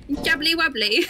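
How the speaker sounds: put-on British accent. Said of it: "insult people in British accent".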